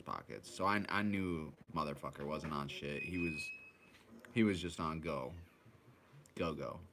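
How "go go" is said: ordinary delivery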